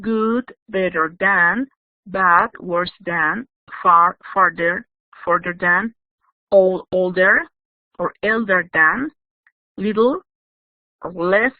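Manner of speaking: slow, spaced list of forms; teacher dictating irregular forms; slow dictation. Shown as a demonstration. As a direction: read each form slowly for students to copy. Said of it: "group six that they are irregular".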